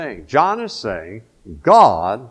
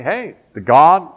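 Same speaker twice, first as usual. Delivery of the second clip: imagined proclamation; 2 semitones higher, 3 dB louder than usual. Retold or imitated. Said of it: "Wouldn't that be the logical place to go and say".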